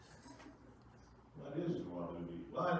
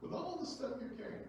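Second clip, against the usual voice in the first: mock amazement; 11 semitones higher than usual. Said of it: "you say".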